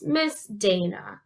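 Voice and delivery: "Miss Dana" slow, in separate beats; syllable by syllable. Shown as a demonstration. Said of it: "it's three total if you count Miss".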